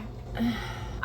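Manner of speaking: soft voiceless sigh; exasperated sigh. Real, not acted. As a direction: let out a quiet, exasperated breath. Exasperated by the chapter.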